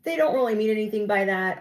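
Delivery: high, airy brushing it off; passive excuse-making. Retold or imitated. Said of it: "you're really passive and you're like".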